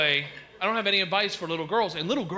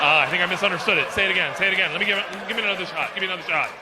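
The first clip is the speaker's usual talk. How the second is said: louder, fast flustered pleading; flustered retry; 4 dB louder, much faster than usual. Retold or imitated. Comic begging his friend to ask again, flustered. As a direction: beg for another chance.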